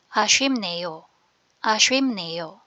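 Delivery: 아쉽네요 said carefully as "a-shwim-neyo"; proper pronunciation. Shown as a demonstration. Teacher reads the word aloud for learners, careful pronunciation. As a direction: model 아쉽네요 with an m sound before "neyo". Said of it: "basahin ko po with proper pronunciation".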